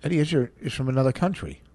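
fast unvoiced whisper; hushed aside. Real, not acted.

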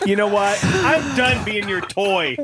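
high slow puppet voice; Gonzo voice. Acted. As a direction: complain like an upset puppet. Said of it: "mean your puppet?".

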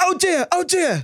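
very high, slow cooing mock chef; gentle chef impression. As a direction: interrupt with a soothing coo. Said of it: "repeats chef bit mid-sentence".

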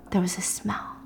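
eerie hushed whisper; a spooky storyteller's whisper. Real, not acted. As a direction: breathe it out like a secret.

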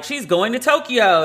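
excited announcer exclaiming the news; announcer call. Retold or imitated. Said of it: "the announcer was like".

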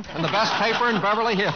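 talking fast through a laugh; quick laughing boast about his paper. Real, not acted. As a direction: push the line out while laughing. Joking plug for his paper.

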